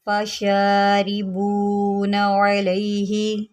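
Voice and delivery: slow, drawn-out tajweed recitation; Quran recitation. Shown as a demonstration. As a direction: chant the verse slowly, held vowels.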